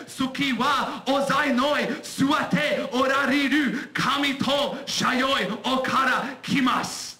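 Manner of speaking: put-on Japanese in a slow, shouted Irish accent. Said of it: "my Japanese in an Irish accent".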